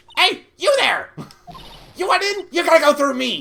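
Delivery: shrill, screechy voice, pitched way up. Voicing the gate guard stopping the lawyers at the studio gate: screechy voice. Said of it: "it's Screechy".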